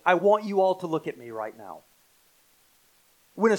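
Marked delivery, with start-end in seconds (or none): 0.0-1.8 firm, louder call to the room; commanding attention. Acted. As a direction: demand their undivided attention. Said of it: "trying to command your undivided attention".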